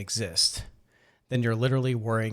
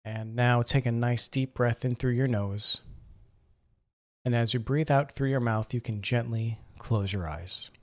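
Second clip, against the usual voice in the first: calm, measured meditation guide, long pauses between phrases; guided meditation. Acted. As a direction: gently guide them into breathing and relaxing. Leads a seated breathing meditation.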